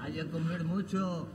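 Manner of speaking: low, quiet mock Arabic accent. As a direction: put on a jokey Arabic accent. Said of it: "Hable usted en árabe".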